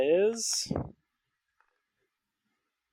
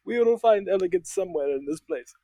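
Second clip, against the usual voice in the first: put-on French accent; 5 semitones higher than usual. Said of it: "and he's like".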